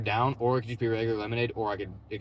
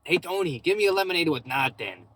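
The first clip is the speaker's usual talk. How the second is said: mock customer calling out; 4 semitones higher than usual. Customer shouting his order to Tony, mock call. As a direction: holler the order back to Tony, playfully.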